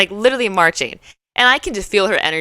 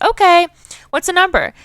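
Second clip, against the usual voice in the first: pushy retort; 11 semitones higher, 4 dB louder than usual. Retold or imitated. Pushy woman blocking her entry.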